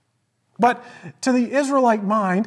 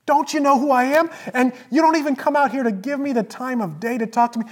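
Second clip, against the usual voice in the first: Naaman; 6 semitones higher, faster than usual. Retold or imitated. Preacher acts out Naaman snubbed at Elisha's door, enraged outburst. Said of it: "filled with rage. He's like".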